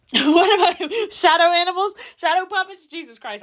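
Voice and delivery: real giddy word-hunt, laughing at herself; flustered fumbling. Real, not acted. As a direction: blurt out guesses in a giddy panic.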